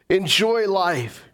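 Enjoy stretched out and slow; slow emphatic. Shown as a demonstration. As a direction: linger on Enjoy life. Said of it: "repeated for emphasis".

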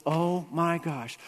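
slow dismay. Retold or imitated. Retold escape plan fails.

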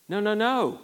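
normal talking voice

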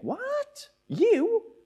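very high, squeaky incredulous questioning; exaggerated shocked double-take; mock disbelief. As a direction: act out an astonished wedding guest. Acted wedding guest's shocked reaction.

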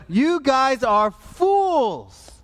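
loud, high, drawn-out proclamation; hammed-up taunt, stretching the last word; divine derision. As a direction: boom scorn down from on high. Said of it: "the Lord sits up there and he goes".

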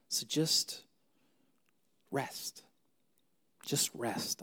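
soft breathy whisper of comfort; gently whispered rest. Real, not acted. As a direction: hush it, just rest. Pastor softly urging rest.

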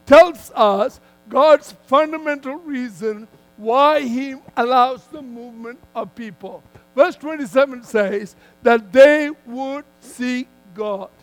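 firm, measured sermon delivery with punched key words; emphatic preaching. Real, not acted. Preacher telling a congregation God moves people so they seek him, emphatic preaching.

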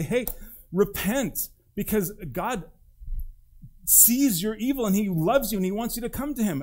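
hammed-up street preacher; mock street preaching. Mock street preacher in Muslim city.

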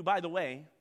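ordinary talk

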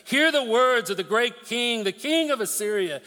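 a touch of a herald shouting to the wall; loud call. Acted. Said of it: "called out in a loud voice".

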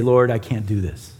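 low, hushed plea to the Lord; a worn-out cry for help, kept low; mild spent prayer; desperate prayer. Retold or imitated. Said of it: "we finally cry out to him and say".

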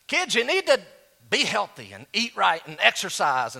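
hammed-up gym teacher lecturing kids; mock PE teacher. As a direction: lecture the kids like a coach who doesn't practise it. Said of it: "sounds like the overweight P E teacher".

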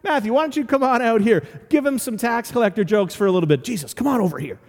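lightly voiced disciple talking him round; mild backstage manager coaxing the star; buddying disciple. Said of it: "kinda put their arm around Jesus and say".

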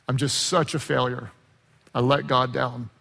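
despairing Peter. Retold or imitated.

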